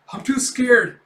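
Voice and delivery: high, loud frightened cry; hammed-up scared wail; mock scared whimper. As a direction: squeak out the fear. Kafka whimpers in fear.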